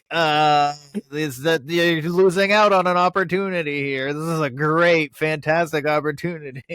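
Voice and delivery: high, loud mock sales pitch; imitating the woman. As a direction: hawk it like a great deal.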